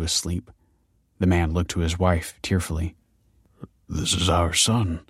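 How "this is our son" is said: softly. Acted. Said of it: "he said softly".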